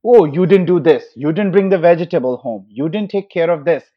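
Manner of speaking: lightly acted nagging wife's complaint; imitating a wife telling off her husband; mock wife yelling. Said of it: "their wife yells at them that".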